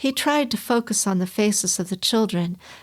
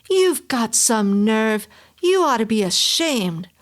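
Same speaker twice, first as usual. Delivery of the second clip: screaming; 3 dB louder than usual. Acted. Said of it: "immediately screamed".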